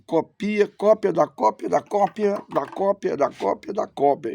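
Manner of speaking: rattled-off chain, sinking in pitch; mocking repetition. Real, not acted. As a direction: repeat it like an endless tedious list. Mocks endless copying by rivals.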